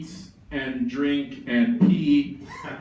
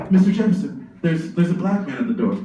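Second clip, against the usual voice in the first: urgent, louder servant calling to Jefferson; servant announcing; 3 semitones higher, 3 dB louder, faster than usual. Acted. Servant announcing a visitor at the door, urgent call. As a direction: servant hurrying in to warn Jefferson.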